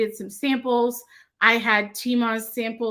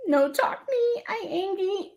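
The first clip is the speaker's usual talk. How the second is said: put-on much higher squeaky baby talk for a grumpy kitty; cute baby voice; 10 semitones higher than usual. Repeating the kitty sticker for fans in a high baby voice. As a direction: pitch it way up like a pouty little kitten. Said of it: "animals talking in baby voices".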